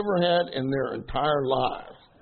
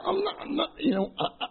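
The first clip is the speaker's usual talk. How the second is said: mock wife voice, going higher; a light, higher imitation of the wife protesting; imitating his wife; 9 semitones higher than usual. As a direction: play the wife brushing it off, rising. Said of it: "she goes".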